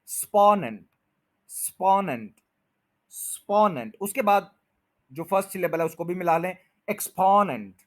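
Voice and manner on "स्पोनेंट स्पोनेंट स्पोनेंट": स्पोनेंट with the first beat स्पो stressed; last two syllables. Shown as a demonstration. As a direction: drill स्पोनेंट, pushing on स्पो. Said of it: "last टू syllables हैं, बस इनकी practice करें".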